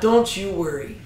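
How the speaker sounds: mild motherly reassurance; a touch of soothing mom. Acted. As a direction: gently tell him it's handled. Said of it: "nice little motherly figure".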